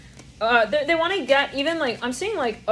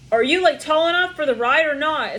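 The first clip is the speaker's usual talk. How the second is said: loud, raised-pitch teasing question; louder, higher mock questioning; mocking challenge; 6 semitones higher, 6 dB louder than usual. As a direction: call it out like a taunt.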